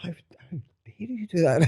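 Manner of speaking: high, hammed-up indignation; theatrical how-dare-you; mock outrage. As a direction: overplay being scandalised. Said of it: "I'm like".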